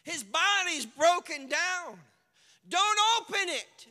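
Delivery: loud, high blurted objection; hammed-up frantic warning; not delicate at all, loud and high; mock delicate protest. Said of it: "they're trying to be delicate".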